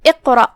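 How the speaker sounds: اقرأ with the opening hamza read as a short "i"; careful tajweed pronunciation. Shown as a demonstration. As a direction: begin اقرأ on a clear kasra "i". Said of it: "ہم حمزہ کو نیچے سے پڑھیں گے".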